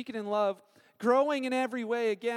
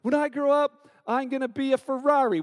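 put-on higher, louder, excited child dreaming big; eager kid; 3 semitones higher, 4 dB louder than usual. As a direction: play a kid boasting about the future. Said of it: "kids have great intentions of growing up".

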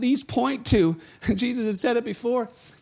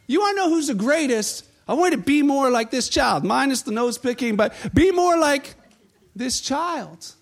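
higher, lively announcement; eager teacher; 4 semitones higher than usual. Retold or imitated. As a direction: present the kid with enthusiasm. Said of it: "and says".

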